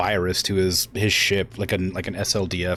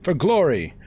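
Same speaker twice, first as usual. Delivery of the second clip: lightly acted desperate appeal; a touch of royal defiance; protesting daughter; 4 semitones higher than usual. Acts Victoria protesting.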